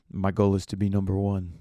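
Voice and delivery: faint hint of a Greek accent, soon abandoned; half-attempted Greek accent. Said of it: "fifty percent me tr-, about to do a Greek accent".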